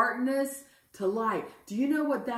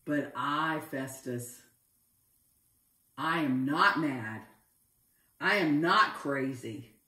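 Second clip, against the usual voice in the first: lower, measured reply to an accusation; composed denial; 5 semitones lower than usual. Acted. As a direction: answer the outburst with firm composure. Paul calmly answers Festus's outburst.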